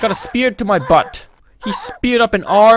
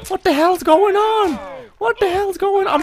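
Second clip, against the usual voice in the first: raging gamer; 12 semitones higher than usual. Real, not acted. Raging repeated question.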